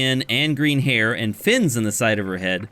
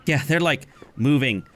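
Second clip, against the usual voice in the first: mocking Triton. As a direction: sneer and snicker at them. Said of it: "Tritons sitting there say".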